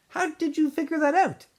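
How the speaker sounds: astonished high question; surprised question. A narrator's reading. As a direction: pitch jumps up in amazement.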